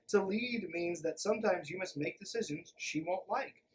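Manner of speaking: ordinary delivery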